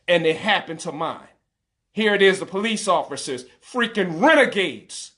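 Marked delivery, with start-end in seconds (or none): 1.9-5.1 heated, rising anger at the police; a father's real fury, pushed but not shouting; enraged rant. Real, not acted. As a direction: let the outrage build through it. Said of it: "and I'm enraged".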